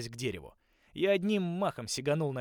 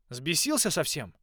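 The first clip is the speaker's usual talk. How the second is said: loud, slow indignant challenge; angry; 5 semitones higher, 6 dB louder than usual. A narrator's reading. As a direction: demand it sharply, slowly. Shoving wolf away, confronting.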